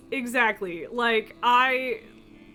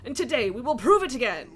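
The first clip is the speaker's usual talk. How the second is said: lightly voiced rallying king; king's battle speech. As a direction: rouse the soldiers before battle. Rallies troops as game king.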